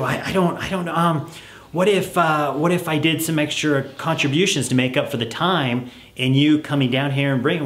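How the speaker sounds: put-on pleading kid. Child voiced in role-play.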